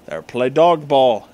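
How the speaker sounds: usual speaking voice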